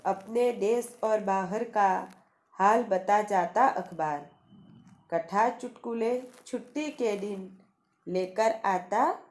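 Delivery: rhythmic, sing-song poem reading; poem recitation. Shown as a demonstration. Teacher reciting the newspaper poem to students, rhythmic recitation. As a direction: recite each line with a lilt, pausing at the rhyme.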